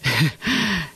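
a short self-amused laugh; amused chuckle. Acted. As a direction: laugh at yourself a little. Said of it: "He laughed".

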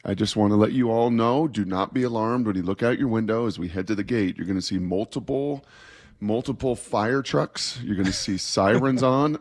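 imitating a calm, measured flight attendant; composed, deliberate airline announcement, lightly acted. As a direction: reassure passengers in an unhurried cabin-announcement voice. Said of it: "the flight attendant very calmly says".

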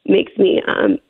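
real catch in the voice; halting, voice giving way mid-sentence; choked up. Real, not acted. Mother overcome retelling the kidnapping call, choked up. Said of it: "it still gets me".

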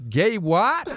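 high rising mock disbelief; baffled frat boy. Wrestler taken aback by Bruno, baffled rising question. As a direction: stop short and query it, pitch rising. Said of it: "he stops and he goes".

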